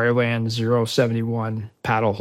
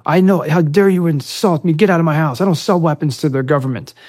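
higher, louder mock outrage; retold indignation; 6 semitones higher, 6 dB louder than usual. Accused man denies selling weapons to Marine, imitated indignant outburst. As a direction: act out an offended man's protest. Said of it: "well, he's pissed off".

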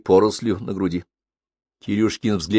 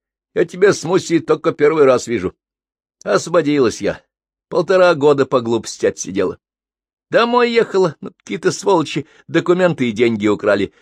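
higher, lightly voiced young woman; rueful girl telling her troubles; 6 semitones higher, 3 dB louder than usual. Svetka tells her story.

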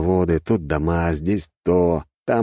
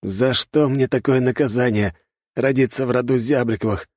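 groaning; 7 semitones higher than usual. A narrator's reading. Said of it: "простонал парень".

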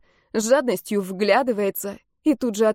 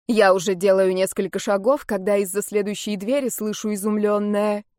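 usual speaking voice

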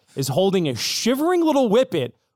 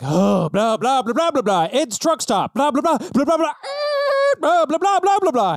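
frantic gibberish climbing higher; 9 semitones higher than usual. Acted. Truck stop owner explaining the hurt dog, frantic. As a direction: babble in rising panic. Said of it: "in a frantic voice".

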